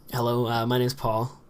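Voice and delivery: relaxed, unprojected introduction; lazy casual speech. Shown as a demonstration. Vlogger showing how he talks to friends, lazy. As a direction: mumble it lightly, as to friends. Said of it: "I kinda get lazy".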